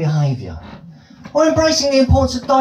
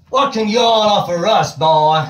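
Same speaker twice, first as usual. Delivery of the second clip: southern drawl. Retold or imitated. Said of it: "Southern States drawl".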